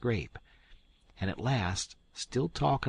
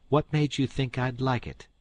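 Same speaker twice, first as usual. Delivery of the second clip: louder, higher scolding; indignant demand; 5 semitones higher, 5 dB louder than usual. Acted. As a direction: demand an answer. Aunt Sally demands.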